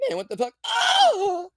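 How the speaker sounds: high mock yell ending in a loud laughing shout; mock outraged fighter. Host mocks fighter yelling at the ref, loud high mock yell. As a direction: play the fighter's fake outrage, then yelp loud. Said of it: "he goes".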